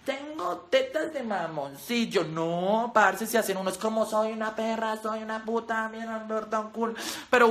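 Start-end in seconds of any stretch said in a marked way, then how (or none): 0.1-2.2 slow, soft, sorry-for-herself reading; mock sad roast lines. Parodying a Roast Yourself video, slow mock-sad voice. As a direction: drag each insult out like a sad confession.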